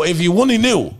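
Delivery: high, loud knowing sigh of a line; muttering to himself about celebrities, high knowing aside. Retold or imitated. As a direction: say it like you know the secret. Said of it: "I go".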